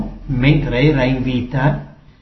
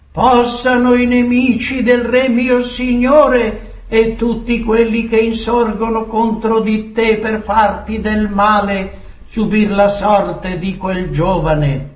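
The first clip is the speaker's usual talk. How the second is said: raised declamation settling to usual pitch; solemn messenger; 6 semitones higher than usual. Acted. Ethiopian tells the king of his son's fate, solemnly. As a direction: declaim it, easing down at the end.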